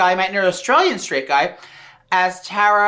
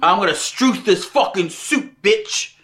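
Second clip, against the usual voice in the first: put-on Australian accent; slower than usual. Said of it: "Struth is an Australian word".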